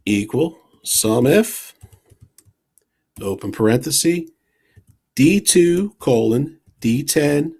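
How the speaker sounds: reading out a formula piece by piece; dictating. Shown as a demonstration. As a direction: spell out each part with pauses. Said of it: "I'll just talk us through".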